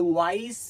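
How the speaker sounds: ওয়াইস with "ai", ending on s; silent final e. Shown as a demonstration. Teacher sounds out wise for students, pronunciation demo. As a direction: say ওয়াইস with nothing after the s. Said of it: "শেষে ই থাকলে ই উচ্চারণ হয়নি".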